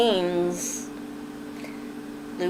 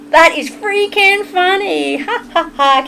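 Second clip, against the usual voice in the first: laughing; 9 semitones higher than usual. Real, not acted. Reacting to a funny chat comment.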